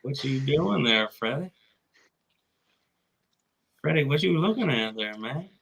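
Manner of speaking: mock Texan accent. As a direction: question Freddie like a Texan neighbor. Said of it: "we just both do Texan".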